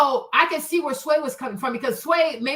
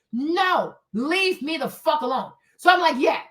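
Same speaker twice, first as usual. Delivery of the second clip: normal talking voice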